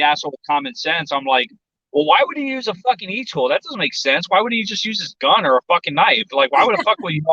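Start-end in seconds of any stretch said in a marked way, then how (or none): 1.9-7.2 higher-pitched skeptical questioning; acted incredulity. Loudmouth trainee questioning the sergeant legend, mock incredulous. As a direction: pitch up, poking holes in the story.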